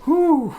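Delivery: high, loud "whew"; whooping whew. Real, not acted. Exhaled reaction to deep lore.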